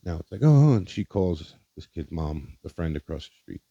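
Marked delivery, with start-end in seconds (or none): 0.4-0.7 loud, high imitation of a panicked mom; mock a mother's alarmed outburst; retold freak-out. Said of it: "She absolutely freaked out".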